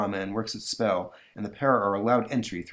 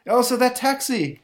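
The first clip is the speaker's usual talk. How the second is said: high, loud warning shout; urgent, pitched-up yell; alarmed cry; 6 dB louder than usual. Acted. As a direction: cry out a sudden warning of danger. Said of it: "Raw Man cries".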